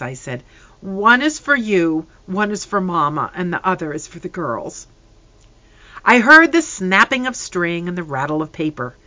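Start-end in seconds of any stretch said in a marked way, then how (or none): 0.8-4.9 choking voice. Acted. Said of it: "in a choking voice".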